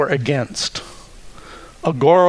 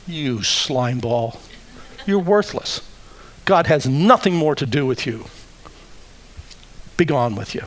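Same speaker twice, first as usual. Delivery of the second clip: contemptuous accuser. Acted. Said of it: "Accusation says".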